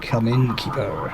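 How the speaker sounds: a hint of a stern soldier reading orders. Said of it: "I'm reading that in the soldier voice".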